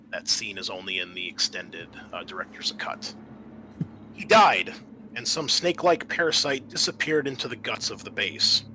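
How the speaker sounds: steady, measured scenario narration; game master scene setting. Acted. GM reading the intro to the players, measured narration. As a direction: set the scene for the players like a briefing.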